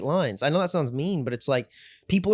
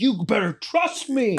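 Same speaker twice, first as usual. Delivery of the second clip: cocky reassurance; 8 semitones higher, 4 dB louder, slower than usual. Retold or imitated. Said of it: "I was like".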